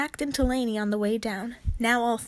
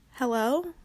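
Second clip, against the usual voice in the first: uncertain call. Acted. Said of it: "she called uncertainly".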